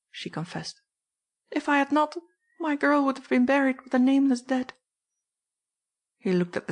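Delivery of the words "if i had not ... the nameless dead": raised, higher woman's voice, urgent; desperate mother explaining herself; pleading housekeeper. Acted. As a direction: confess in a higher, anxious woman's voice. Mrs Kinney confessing.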